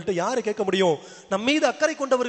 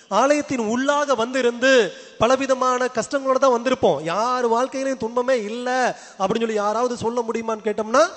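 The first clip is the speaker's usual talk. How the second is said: raised, ringing sermon delivery; emphatic preaching; 4 semitones higher, 3 dB louder than usual. Real, not acted. Preacher to congregation about everyone's troubles, emphatic preaching. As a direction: press the point on the congregation.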